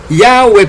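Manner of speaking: Yahweh said slowly as "YAH-weh"; Yahweh with final "weh"; Yahweh ending in -weh. Shown as a demonstration. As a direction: slowly, end Yahweh on an E sound. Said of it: "yo las pronuncio".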